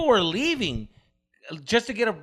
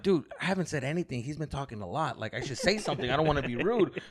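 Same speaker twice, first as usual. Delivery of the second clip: inner voice; 5 semitones lower, 7 dB quieter than usual. Retold or imitated. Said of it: "I was thinking in my head".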